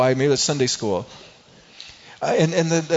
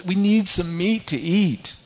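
whiny wailing; 5 semitones higher, slower than usual. Retold or imitated. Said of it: "all kind of wailing and going".

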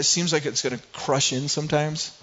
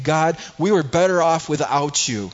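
rebellious; 3 semitones higher, 4 dB louder than usual. Retold or imitated. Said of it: "They are saying".

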